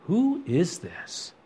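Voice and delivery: hushed, slow awe; awed whisper. Acted. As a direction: whisper it in frightened wonder. Terrified disciples voiced in awe.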